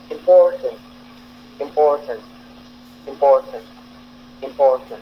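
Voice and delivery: important with a strong "POR" in the middle; im-POR-tant, middle syllable punched; stress on PORT. Shown as a demonstration. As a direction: barely say the "im", lean hard on "por" in important. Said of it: "on prononce beaucoup le port".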